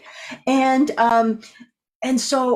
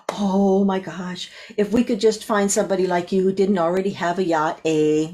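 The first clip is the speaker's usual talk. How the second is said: put-on Canadian accent. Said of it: "That's as Canadian as I get".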